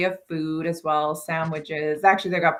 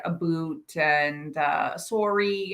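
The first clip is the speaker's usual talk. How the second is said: Canadian accent demo; 4 dB quieter, much slower than usual. Shown as a demonstration. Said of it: "that's where you hear more".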